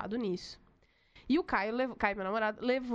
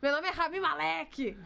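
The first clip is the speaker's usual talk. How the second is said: slow, lightly mimicked Enéas catchphrase; a hint of Enéas's campaign slogan, slowed right down; 2 semitones higher than usual. Friend jokingly recites the actor's name like Enéas, slow mock slogan. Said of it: "filho do Enéas".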